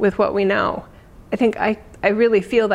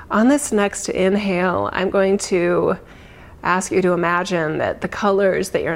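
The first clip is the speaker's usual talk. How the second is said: guided meditation. Acted. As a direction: ease them gently into calm. Leads a meditation.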